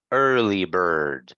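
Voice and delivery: "early bird" with er held long; drawn-out er sound. Shown as a demonstration. Teacher modelling the example for students, "early bird" with long er. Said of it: "So it's".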